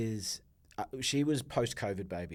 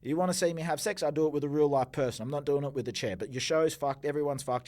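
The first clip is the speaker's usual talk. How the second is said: raised, higher voice, re-enacting a tirade; heated re-enacted outburst; retold angry rant; 4 semitones higher, 5 dB louder than usual. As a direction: tell them off loudly as you relive it.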